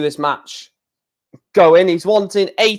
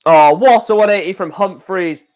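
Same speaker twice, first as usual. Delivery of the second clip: excited; 5 dB louder than usual. Real, not acted. Big 180 thrown.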